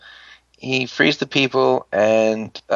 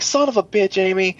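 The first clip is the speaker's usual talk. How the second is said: mock outraged curse; 9 semitones higher than usual. Team cursing Amy's mistake.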